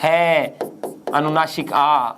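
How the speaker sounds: हाँ pulled apart into है and a separate आ; name the parts है, अनुनासिक आ one by one; है, then आ, as separate pieces; split syllable. Shown as a demonstration. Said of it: "इसका उच्चारण ऐसे नहीं हो सकता".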